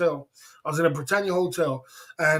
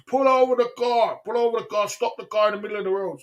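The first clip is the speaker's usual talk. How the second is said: raised, commanding cop voice calling out; police shouting orders; 5 semitones higher than usual. Retold or imitated. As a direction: bark it like police on a loudspeaker. Police ordering him to stop.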